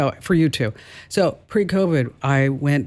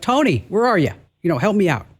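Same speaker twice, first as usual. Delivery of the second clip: mock search call, pitched up; 4 semitones higher, faster than usual. Searcher calling for a lost cousin at Normandy, higher mock call. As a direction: re-enact calling out for someone lost. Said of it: "I'm calling out to Tony".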